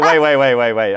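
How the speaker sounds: high, loud burst of repeated words; mock surprised interruption. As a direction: cut in as a baffled listener. Imitating surprised foreigners halting him.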